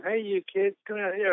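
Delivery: a mild call to the back of the room. Retold or imitated. Surf shop owner calling kids from the back room, mild call. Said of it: "called out to the back of the room".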